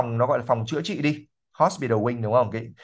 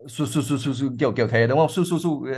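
shooing sound. Shown as a demonstration. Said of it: "mình muốn đuổi một cái con chó".

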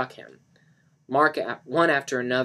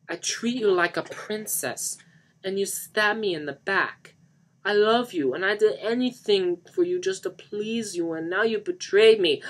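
high, loud wounded wailing; anguished wail; 8 semitones higher, 7 dB louder than usual. Acted. Johnny pleads with Lisa after her betrayal, wailing. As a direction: wail in heartbroken accusation. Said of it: "Johnny wailed".

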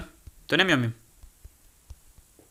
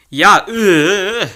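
frustrated whine; 4 semitones higher, 6 dB louder than usual. Real, not acted. Frustrated whine, crying sound.

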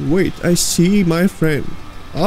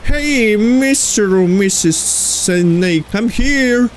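slow, drawn-out call to a creature; coaxing call; 4 semitones higher, slower than usual. Real, not acted. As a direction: stretch each word as if hailing a snake. Calling out to the snake.

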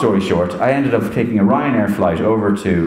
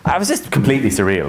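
normal talking voice

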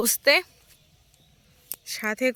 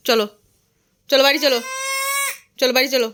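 loud coaxing; 3 semitones higher, 4 dB louder than usual. Real, not acted. Pleading with child to come.

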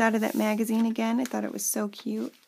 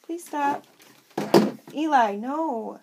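firm scolding; 4 semitones higher, slower than usual. Real, not acted. Mom tells her toddler Eli to stop while filming, firm and slow. Scolding child during video.

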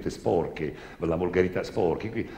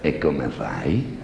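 very slow, lower confessor; slow priest voice; 6 semitones lower, much slower than usual. Acted. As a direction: draw it out, curious priest. Priest questions the girl.

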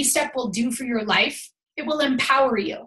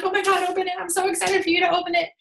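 higher, eager and bubbly; can't wait for them to open it; excited gift giver; 5 semitones higher, faster than usual. Retold or imitated.

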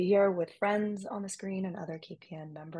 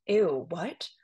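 put-on smug Valley Girl accent with the O sounds drawn out; 3 semitones higher, 7 dB louder, slower than usual. Fifth grader brushing off a gym classmate, in a smug Valley Girl accent. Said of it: "drawing out the O sounds in my Valley Girl accent".

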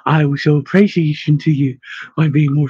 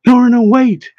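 higher, louder call to stop; urgent call; 8 semitones higher, 5 dB louder than usual. A narrator's reading. Calling after a frightened woman ducking away, urgent call. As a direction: call out after someone running off.

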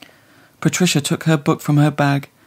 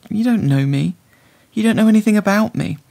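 rising irritation; 6 semitones higher, 4 dB louder than usual. A narrator's reading. Patricia rising, irritated outburst.

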